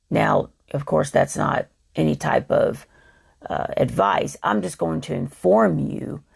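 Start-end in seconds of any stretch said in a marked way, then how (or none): 4.4-6.2 rough, gravelly tired voice; a worn gravelly voice. Real, not acted. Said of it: "I apologize for the gravelly voice".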